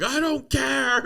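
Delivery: high, carefree partygoer brush-off; careless partygoer. Retold or imitated. Young partygoers at house parties, careless brush-off. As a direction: toss it off like a reckless partier.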